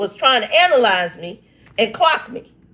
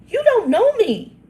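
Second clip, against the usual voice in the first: the other Shannon. Acted. Answering the cousin's texts, high and indignant. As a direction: let the fed-up side take over. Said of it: "the other Shannon's coming out".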